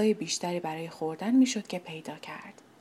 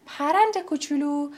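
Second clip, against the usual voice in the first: higher, kindly calling out "پرند کوچولو"; friendly call; 6 semitones higher, 4 dB louder than usual. Acted. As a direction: call the little bird gently from afar. (صدا زدن مهربون «پرند کوچولو»)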